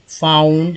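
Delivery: फाउंड drawn out as "faa-oond"; model reading. Shown as a demonstration. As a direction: read फाउंड with a clear "au" glide. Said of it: "कैसे कैसे पढ़ेंगे". (फाउंड को खींचकर पढ़ना)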